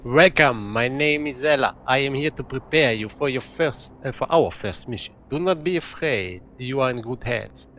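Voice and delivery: lightly put-on Eastern European accent; attempted Russian accent. Game guide Ella greets a new recruit, attempted Russian accent. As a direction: welcome the newcomer in an imitated Russian or Polish accent. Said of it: "So I'm trying to mimic the accent".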